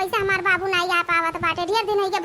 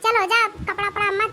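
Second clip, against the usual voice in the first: bride's reply. Acted. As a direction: answer the old woman sweetly as the bride. Bride answers mother-in-law.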